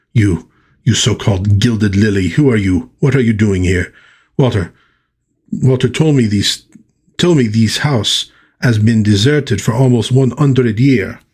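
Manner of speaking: lightly put-on French accent; Aurora. Aurora questioning Gilded Lily, French-accented. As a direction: challenge her with a touch of a French accent. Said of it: "she is getting a thicker French accent".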